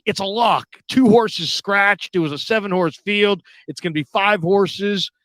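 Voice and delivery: imitating an excited, cocksure buddy; insistent tip. Buddy insists the bet is sure.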